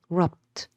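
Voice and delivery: "rupt" said alone as the stressed part; firm, separate "rupt"; stressed final syllable. Shown as a demonstration. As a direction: isolate "rupt" with full weight. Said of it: "the stress is on the very last syllable".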